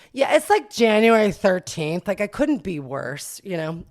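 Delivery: loud, high sarcastic put-down; mock him for shopping so late; sarcastic jab.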